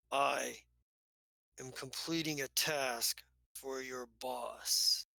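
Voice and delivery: a hint of cold threat, spaced out; menacing figure. Unannihilated stands up, menacing.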